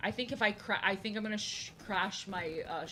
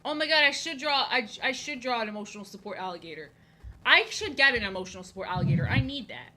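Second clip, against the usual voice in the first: excited idea; 7 dB louder than usual. Real, not acted.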